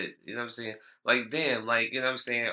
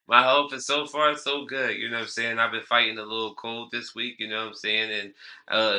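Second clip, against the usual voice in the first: slight lisp from a sore tooth; lisping through a toothache; 3 semitones higher, 7 dB louder than usual. Real, not acted. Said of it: "excuse my lisp".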